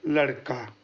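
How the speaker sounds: low, falling लड़का as a slow example; drawn-out example word. Shown as a demonstration. Teacher showing an example word to students, slow and low. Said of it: "जैसे यह".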